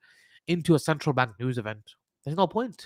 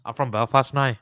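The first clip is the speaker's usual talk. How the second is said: put-on Northern Irish accent; 2 semitones lower, 4 dB louder than usual. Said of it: "I can put the Northern Irish accent on".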